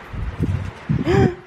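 sharp airy gasp of alarm; startled gasp. Real, not acted. A mother gasping at a mattress in the empty house, startled. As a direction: suck in a frightened breath.

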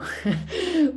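a short amused laugh. Real, not acted. Lecturer laughing at her own joke, a short laugh.

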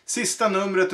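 mock ringmaster shout; ringmaster call. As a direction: call out the last act. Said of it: "ropar direktör Bardino".

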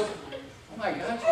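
hushed, slow gasp of shock; shocked whisper. Retold or imitated. Doctor peering inside, whispered shock. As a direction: breathe it out stunned. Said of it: "he goes".

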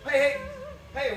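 high, loud, joyful calls; jubilant shouting. Acted. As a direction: shout your joy to the whole town. George calls for Mary joyfully.

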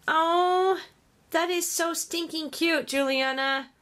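high-pitched adoring coo; gushing delight. Real, not acted. Crafter admires her friend's gift, gushing with delight. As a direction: coo over something adorable.

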